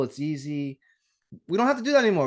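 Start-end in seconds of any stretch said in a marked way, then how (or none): 1.5-2.3 excited. Real, not acted. Excited relief at modern convenience.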